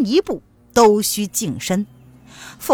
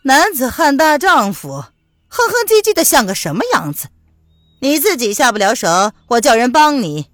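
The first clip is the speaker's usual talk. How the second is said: loud, impatient scolding; 5 dB louder than usual. Acted. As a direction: snap at him, fed up. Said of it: "不耐烦地说". (不耐烦地呵斥)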